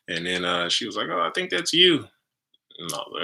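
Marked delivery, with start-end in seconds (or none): 1.1-2.0 put-on awed girlfriend. Girlfriend voiced in story.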